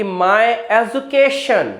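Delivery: education with j, edjukeshan, slow; my education the common wrong way; wrong pronunciation. Shown as a demonstration. Teacher showing students the mistaken education. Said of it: "बहुत बड़ी mistake".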